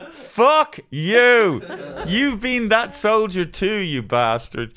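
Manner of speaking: loud, high, indignant yell; explode, then drop off on the last words; furious outburst. Acted. Ranting back at judging fellow passengers, mock-furious yell. Furious retort to disapproving onlookers.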